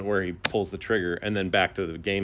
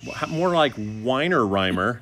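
teasing dog voice; 4 semitones higher, slower than usual. Acted.

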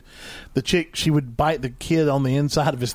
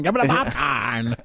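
leprechaun; slower than usual. Retold or imitated. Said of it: "It's like a fucking leprechaun".

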